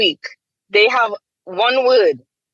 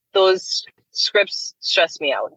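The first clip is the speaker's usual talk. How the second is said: slow, exhausted whisper; stressed whisper; slower than usual. Real, not acted. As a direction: breathe it out, worn down by bad scripts. Venting about bad scripts.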